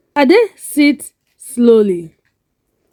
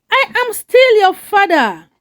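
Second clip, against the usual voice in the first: desperate; 9 semitones higher than usual. Acted.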